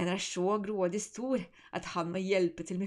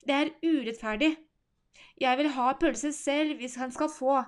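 near tears; 4 semitones higher, 5 dB louder than usual. Acted. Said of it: "Nesten gråter hun".

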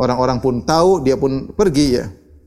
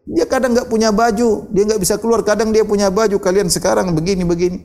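higher-pitched, mildly reproachful retelling; retold rebuke; 5 semitones higher than usual. Usair defends Uwais to the people mocking him, mild rebuke. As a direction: reprove them in a raised pitch, without shouting. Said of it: "Aku pun menegur mereka dengan perkataanku".

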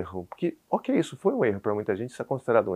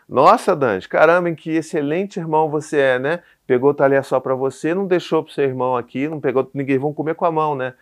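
loud, higher-pitched mock praise; sarcastic scolding; 4 semitones higher, 6 dB louder than usual. Frazzled dad telling his son off at dinner, sarcastic. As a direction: pile on exaggerated, sarcastic admiration. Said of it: "eu fui sarcástico com ele".

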